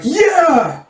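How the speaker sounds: high-pitched rousing whoop; big rallying yell; soldiers' cheer. Acted. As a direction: cheer like an eager troop of soldiers. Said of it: "the soldier's like".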